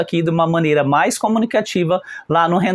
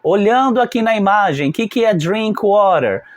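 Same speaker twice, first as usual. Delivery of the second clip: light classroom question voice; teacher asking class; 3 semitones higher than usual. Shown as a demonstration. Teacher quizzes students on the picture, lightly voiced. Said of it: "Então eu falo".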